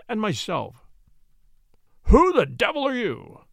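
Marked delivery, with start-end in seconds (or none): 2.0-3.5 loud, high angry demand; thundering. A narrator's reading. Landowner catching strangers in his vault, thundering. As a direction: bellow it at the intruders. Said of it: "he thundered".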